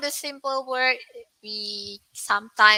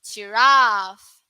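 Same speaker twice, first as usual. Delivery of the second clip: "Giraffe" the British way, long "raff"; British pronunciation; 6 dB louder than usual. Shown as a demonstration. Teacher modelling the UK "Giraffe" to the class. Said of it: "Can you do it together?".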